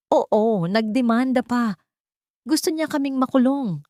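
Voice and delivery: mother whining to her sister on the phone; playing the victim. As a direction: fake a trembling hurt tone for sympathy. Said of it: "ay naging boses ng isang biktima".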